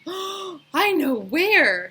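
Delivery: put-on high, loud, drawn-out giggly girl; excited exclaim. Dana squealing she knows where, high and slow. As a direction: squeal out the secret. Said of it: "she exclaimed".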